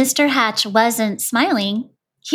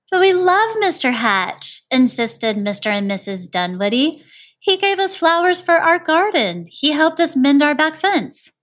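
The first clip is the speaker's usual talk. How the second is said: a lightly voiced couple, pitched higher and insistent; insistent neighbours; 6 semitones higher than usual. The Dunwoodys insisting to the neighbours, higher and earnest. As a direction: plead his case, higher and eager.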